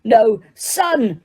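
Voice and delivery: furious disowning. Acted. Father disowning his son in fury. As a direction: spit out each word. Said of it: "bellowed Mister Crouch".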